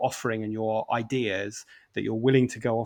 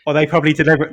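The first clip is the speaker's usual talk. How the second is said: bad acting; 5 semitones higher, 11 dB louder, much faster than usual. Real, not acted. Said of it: "deliver it like this".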